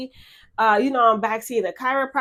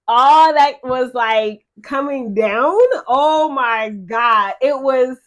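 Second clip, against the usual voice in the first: pained outburst; 7 dB louder, much slower than usual. Real, not acted. Describing the period pain.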